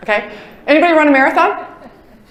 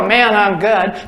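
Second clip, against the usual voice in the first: drawn-out self-praise; slow smug boast; 5 semitones lower, much slower than usual. Pretend. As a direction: savor it, very slowly. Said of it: "you don't have to go".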